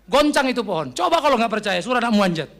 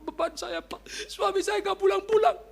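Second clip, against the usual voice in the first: high-pitched plaintive wife voice; mock wail to the pastor; complaining wife; 11 semitones higher than usual. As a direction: act out a wife bewailing her absent husband.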